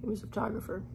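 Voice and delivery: soft unvoiced whisper. Real, not acted. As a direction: whisper it back. Whispered reply about the cameraman.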